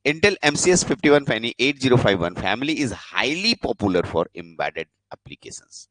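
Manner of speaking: slow, drawn-out reading of the slide. Shown as a demonstration. Teacher reading the next topic off the slide, slow and deliberate. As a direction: read it off the slide word by word. Reads slide text slowly.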